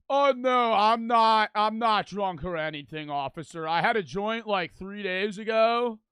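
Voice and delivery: lightly mocking a slurry stoned guy; imitating a stoned driver. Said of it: "you just sound piss drunk".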